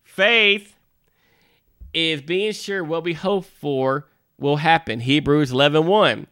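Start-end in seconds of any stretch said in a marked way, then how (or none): 0.0-5.0 serious and deliberate, with pauses. Shown as a demonstration. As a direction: read it solemnly, pausing after faith. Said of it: "getting back to our serious side".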